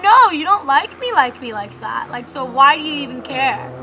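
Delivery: petty argumentative retort, punchy start; super petty. Retold or imitated. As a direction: retell it as a petty challenge. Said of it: "Like, super petty".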